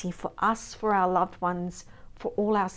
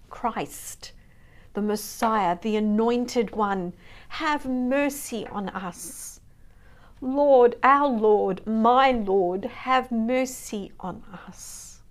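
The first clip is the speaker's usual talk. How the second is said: mean every word, crying out to the Lord; heartfelt plea; 5 dB louder, slower than usual. Shown as a demonstration. Preacher showing the congregation how to pray it, heartfelt and earnest. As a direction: call out Lord with swelling force, then soften into a slow, earnest have mercy. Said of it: "Say it with your heart".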